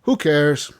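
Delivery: high, offhand oh; callous Strauss. Retold or imitated. Strauss dismissing the death, high offhand voice. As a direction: brush it off like a cold moneylender. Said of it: "And Strauss is like".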